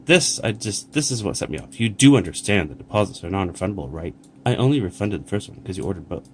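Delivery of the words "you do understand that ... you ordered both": curt, condescending email read aloud; wrong tone of voice. Shown as a demonstration. Reading the seller's curt reply to the customer, condescending. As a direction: read it as the rude, defensive seller. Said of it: "no, this is the wrong tone of voice".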